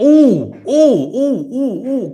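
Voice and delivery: high, loud excited ooh sounds; excited squeals. Real, not acted. Reacting to robotaxi news, squealing with excitement. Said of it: "sorry, I'm very excited".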